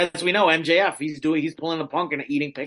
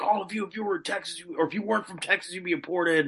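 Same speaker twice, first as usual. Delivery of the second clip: imitating MJF; 4 semitones higher, 4 dB quieter, faster than usual. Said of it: "he goes, like".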